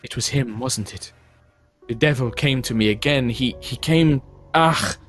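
horrified. Acted. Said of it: "she kind of looks horrified".

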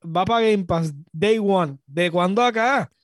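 hammed-up outrage over the game deal; mock rant. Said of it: "este está llorando".

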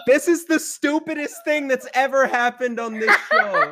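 talking through laughter; giggling while speaking; laughing. Real, not acted. Group laughter chaos.

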